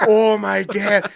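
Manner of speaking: put-on Minnesota accent. Imitating the local accent.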